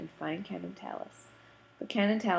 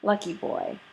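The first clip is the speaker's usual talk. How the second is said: louder, higher knowing tease; teasing salesman; 3 semitones higher, 5 dB louder than usual. Acted. Mr Green teasing Adam about his lunch date, lightly voiced jovial tease. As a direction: needle him with a wink in the voice.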